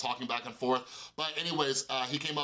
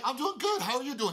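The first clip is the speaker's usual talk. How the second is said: bright reply; 9 semitones higher than usual. Retold or imitated. Retelling own bright reply.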